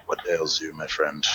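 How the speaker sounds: calm dragonborn. Acted. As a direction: speak evenly to a distressed stranger. Player speaks in character to gnome.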